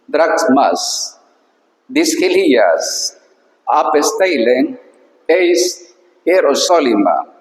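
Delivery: slow, careful reading of ancient Greek. Shown as a demonstration. Teacher reading the Greek verse to students, slow and careful. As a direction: read each word apart for the students.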